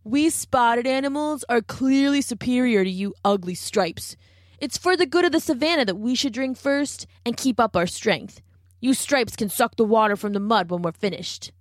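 haughty cheetah, sneering at stripes; arrogant cheetah. Acted. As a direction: lord it over them, proud and scornful.

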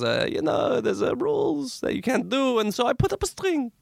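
exaggerated Hasidic Jewish accent, high. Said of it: "my prejudicial, like, Hasidic Jewish accent".

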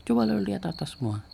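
high-pitched cross command; retold angry order. Diti orders everyone to look up, imitated anger. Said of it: "dia marah gitu".

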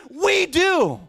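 rousing, emphatic defiance; bold declaration. Acted. Acting David's bold declaration.

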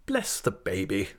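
mild exasperated exclamation; understated aunt's outburst; exclaiming. Acted. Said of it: "exclaimed Miss Betsy".

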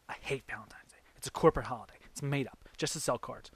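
put-on whispery, dismissive girl at the bar; sassy girl voice. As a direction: play the sassy bar girl, brushing him off. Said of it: "I love your girl voice".

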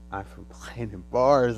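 slow, loud alien announcement; slow alien greeter. Retold or imitated. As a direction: proclaim it like a visitor from space. Alien greeting at your door.

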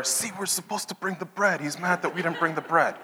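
hushed whisper between friends. Retold or imitated. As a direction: whisper it so the teacher won't hear. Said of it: "they start whispering to each other".

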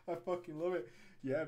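ordinary delivery

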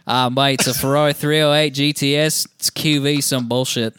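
off-the-cuff mock Australian accent. Shown as a demonstration. Co-host obliging a request to read out the Ferrari's name, Australian accent. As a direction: put on a rough-and-ready Australian accent. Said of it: "Australian accent. I don't care".

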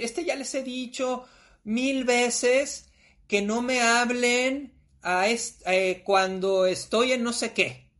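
slow, whiny complaint with no authority; a weak, drawn-out complaint. Retold or imitated. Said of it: "con ese tonito". (queja lenta y quejumbrosa)

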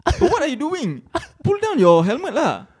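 high, loud, stretched-out scolding; exasperated yell. Retold or imitated. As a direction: yell at her to fix it. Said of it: "I'm like".

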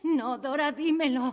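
insistent demand. Acted. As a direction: push her hard for the answer. Sister demands the secret. (exigencia insistente)

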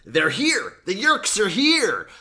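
high, loud panicked cry, slowing at the end; mock screaming. Crazed man in the street screams about Yeerks, loud mock panic. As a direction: shout the warning like a crazed man. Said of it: "then he screams".

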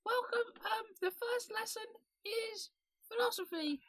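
very high squeaky ferret voice. Pretend. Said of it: "speak in the ferret voice".

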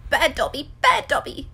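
high self-scolding elf shout; frantic little elf yelling. A narrator's reading.

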